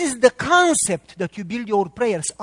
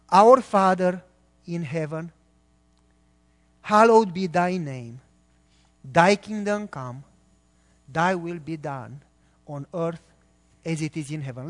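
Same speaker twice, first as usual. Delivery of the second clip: slow recited prayer; 4 semitones lower than usual. Shown as a demonstration. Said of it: "say it with me".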